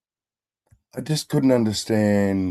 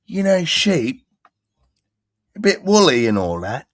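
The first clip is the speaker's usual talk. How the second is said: farmer impression; 12 semitones higher, 4 dB louder, slower than usual.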